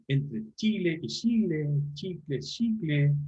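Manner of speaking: slow "chile y chile", "chicle, chicle", ch then sh; slow paired "chicle, chicle" demo; ch and sh variants. Shown as a demonstration. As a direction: say each word twice, ch then sh, slowly. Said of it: "pronunciando la che o la she".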